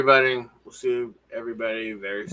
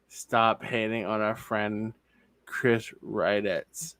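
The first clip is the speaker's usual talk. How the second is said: mock earnest reading; much slower than usual. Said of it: "I love the beginning".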